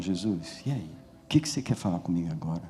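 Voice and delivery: low, hushed aside to Jesus; quick, soft, casual murmur to God; quiet private prayer. Retold or imitated. Man praying to Jesus over the dishes, quiet and intimate.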